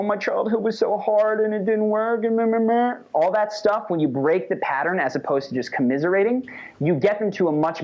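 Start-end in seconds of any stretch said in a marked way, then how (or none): 0.0-2.9 higher whiny mock lament; mock sob story. Mocking a friend wallowing in a sad story, whiny. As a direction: parody someone wallowing in self-pity. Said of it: "that sense of".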